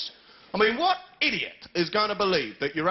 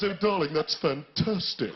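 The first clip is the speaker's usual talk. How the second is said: irritating voice; 2 semitones lower than usual. Retold or imitated. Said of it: "that irritating voice".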